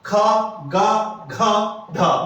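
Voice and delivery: खा गा घा ढा spoken very slowly, each one held; slow velar drill; throat sounds demo. Shown as a demonstration. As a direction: stretch खा, गा, घा, ढा slowly. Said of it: "ये हमारे कहां से आएंगे".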